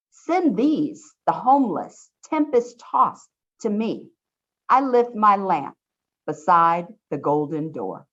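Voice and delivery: slow, measured poem recital; unhurried recitation of a famous poem; poem reading. Acted. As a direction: read it out slowly, as a poem. Reads the poem aloud.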